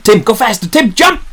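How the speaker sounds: high-pitched urgent commands; urgent yell. Acted. Man telling Tim to jump clear, urgent yell. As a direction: yell as if time is running out.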